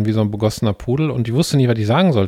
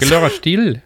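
slightly higher, mock Indian-accented French; 4 semitones higher, 3 dB louder than usual. Podcaster trying out for co-host how French sounds in an Indian accent. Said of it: "wie würde denn Französisch mit indischem Akzent klingen".

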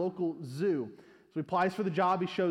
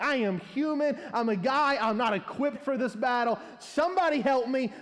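raised, desperate cry for help; panicked plea; 4 semitones higher than usual. Retold or imitated. Man in gorilla suit begging the crowd, panicked. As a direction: plead like a man in over his head.

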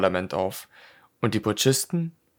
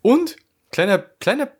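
excited squeal; 11 semitones higher than usual. Real, not acted.

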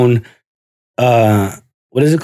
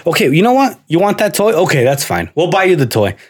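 lightly raised patient father; father makes his son choose toy or dinner, raised; mock bargaining dad; 3 semitones higher than usual. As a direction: bargain with the child, reasonable. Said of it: "he would always be like".

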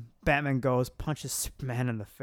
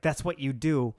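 a bit louder, heated; mildly angry retort; 6 dB louder than usual. Retold or imitated. Superman accusing Batman, a hint of anger. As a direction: push back with mock anger. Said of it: "like, gets pissed".

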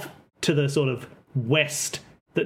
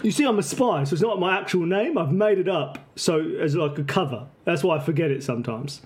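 Cockney; 3 semitones higher than usual. Acted. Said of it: "kinda Cockney".

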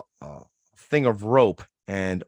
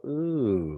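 a hushed, drawn-out ooh; soft ooh; 2 semitones higher, 5 dB quieter than usual. Pretend. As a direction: sigh out a pleased ooh. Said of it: "Things that make you go".

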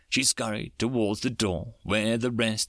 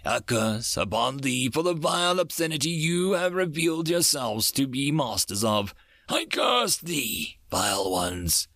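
laying a curse; 4 semitones higher than usual. Acted. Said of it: "tried to lay a curse on them".

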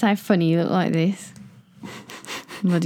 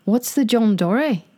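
higher-pitched amateur Australian; attempted Australian accent; 5 semitones higher than usual. Quizzing the friend on slang, attempted Australian accent. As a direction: have a go at Australian. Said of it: "do it in the Australian accent".

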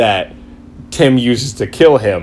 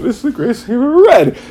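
high, fast gushing rave; ecstatic reader; 12 semitones higher, faster than usual. Retold or imitated. Reader reacting panel by panel, high fast rave. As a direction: rave breathlessly.

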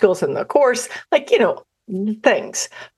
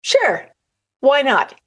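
inner voice; 7 semitones higher, slower than usual. Retold or imitated. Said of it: "that little voice in my head went".

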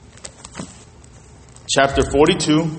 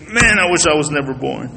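doubt talking. Shown as a demonstration. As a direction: let the words sag in despair. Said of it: "you got doubt talking".

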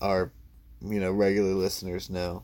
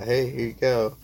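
cheery greeting voice; 4 semitones higher, 5 dB louder than usual. Pretend. Voicing a friendly poop.

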